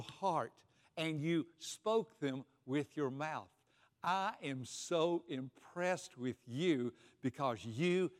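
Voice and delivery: slow, tender praise; Jesus voiced tenderly. Jesus praising a listener after church, slow and tender. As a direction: linger over each word with gentle admiration. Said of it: "he points to you and says".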